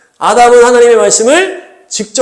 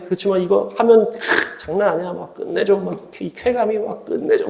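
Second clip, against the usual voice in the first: softer, coaxing, savouring voice; the devil whispering temptations to Eve; tempting devil; 5 dB quieter than usual. Acted. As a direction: seduce with promises of thrill.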